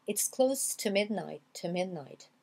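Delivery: TO cut to "t'", joined onto midnight; linked TO. Shown as a demonstration. Teacher models the liaison for learners, TO linked to midnight. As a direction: run "t'midnight" together as one word. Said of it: "vous allez faire la liaison comme ça".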